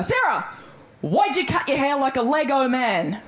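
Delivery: high mocking dad voice; dad's voice. Dad on FaceTime mocking her haircut, mild dad impression. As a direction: tease her about the haircut. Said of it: "and he goes".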